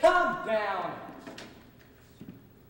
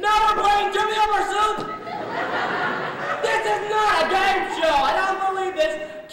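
loud, slow exasperated yelling, higher; exasperated shout; 6 semitones higher, 4 dB louder than usual. Acted. Host yelling at squabbling guests, slow furious shout. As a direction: slam each word down, fed up with the bickering.

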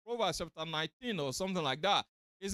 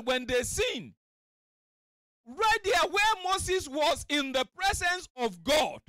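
fiery sermon delivery; preaching; 6 semitones higher than usual. Acted. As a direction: preach it out to the congregation. Preacher at full force.

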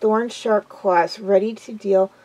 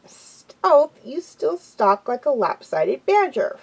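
playful mocking, jumping high on the first word; teasing; 4 semitones higher, slower than usual. Firepaw ribbing his friend's stalking, teasing. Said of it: "Firepaw teased".

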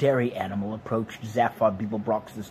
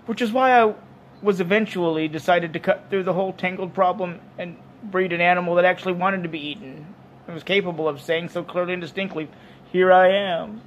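higher, louder bovine explainer; raised-pitch creature voice, eager to be eaten; earnest dairy animal; 6 semitones higher, 5 dB louder than usual. Acted. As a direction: explain proudly why you were bred.

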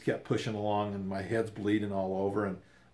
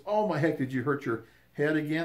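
higher, concerned "oh my heck"; worried lady; 5 semitones higher than usual. Retold or imitated. The lady asking about his bleeding head, lightly voiced alarm. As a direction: voice her alarm, pitched up.

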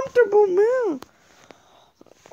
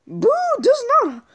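1 whispered boo; 5 semitones higher, faster than usual. Pretend. Booing whispered.

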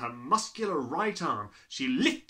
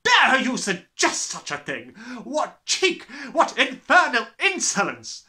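loud, higher tirade; furious headmistress; 9 semitones higher, 12 dB louder than usual. Acted. Headmistress raging at the cheeky boy. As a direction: roar the insults. Trunchbull voice.

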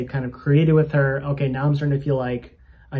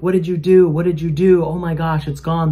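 loud, higher-pitched imitation of astonishment; retold freak-out; 4 semitones higher, 8 dB louder than usual. Healed woman to the man who prayed, pain gone, freaking out. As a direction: act out her stunned, excited outcry. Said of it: "She's starting to yell".

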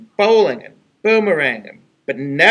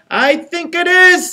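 much higher, eager repeat of the line; squeaky little engine; 13 semitones higher, 3 dB louder than usual. Acted. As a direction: push the engine's voice way up. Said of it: "said the little engine".

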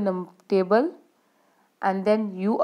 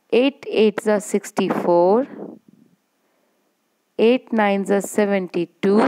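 chanted times table, each line rising; slow sing-song recitation for the class; slow school dictation. Shown as a demonstration. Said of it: "We will read it again".

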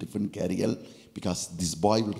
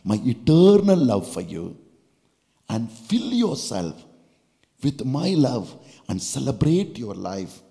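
voice of the Lord; 4 dB louder than usual. Acted. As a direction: speak God's promise tenderly. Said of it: "the Lord says".

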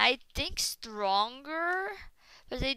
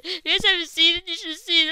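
agitated rant; 7 semitones higher, 6 dB louder, faster than usual. Real, not acted. Still ranting after the shock.

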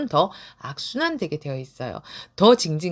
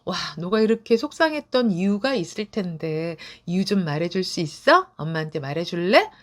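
gentle asking. Shown as a demonstration. Mother gently asking her upset child why. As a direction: coax kindly, no pressure. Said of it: "살짝 바꾸어서".

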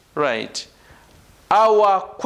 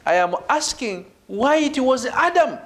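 "Adam" raised in pitch, then falling; stress on Adam; 3 semitones higher than usual. Shown as a demonstration. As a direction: build toward a firm "Adam". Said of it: "When I put emphasis on Adam".

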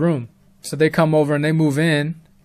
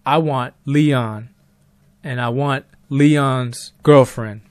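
mysterious caller voice; slower than usual. Retold or imitated. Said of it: "The voice says".

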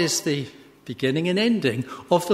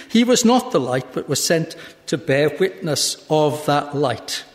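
firm, projected Bible reading; scripture reading; 4 dB louder than usual. Acted. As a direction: read the verses out to a congregation. Reads scripture aloud.

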